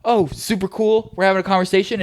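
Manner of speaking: fake-sweet, dragging the words out; mock cheerful. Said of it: "I was like".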